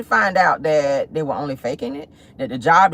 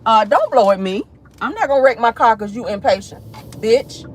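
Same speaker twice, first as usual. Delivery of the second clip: road rage; 4 semitones higher, 3 dB louder than usual. Real, not acted. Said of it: "I'm road raging".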